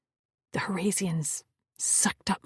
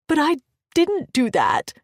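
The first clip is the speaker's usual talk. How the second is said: high distressed cry; 8 semitones higher, 8 dB louder than usual. Acted. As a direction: cry out in despair. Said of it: "I cried".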